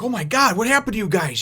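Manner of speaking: high, loud alarmed cry, played for fun; mock panicked screaming. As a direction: imitate a friend freaking out. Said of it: "like, screaming around".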